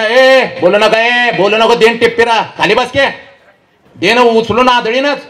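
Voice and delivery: stern threatening reprimand; scolding call-out. Real, not acted. Scolds chattering youngsters, threatens them.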